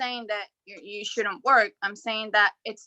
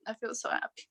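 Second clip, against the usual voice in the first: barely voiced, much softer, overcome; emotional whisper; 10 dB quieter, faster than usual. Real, not acted. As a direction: breathe it out, too moved to speak. Grateful client overcome with emotion.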